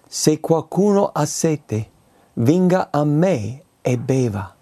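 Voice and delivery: invito pacato. Shown as a demonstration. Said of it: "leggo ancora".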